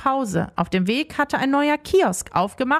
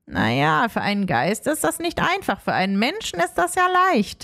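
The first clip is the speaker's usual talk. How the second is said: explaining ghost; 2 semitones lower than usual. Acted. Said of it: "erklärte Rumpel".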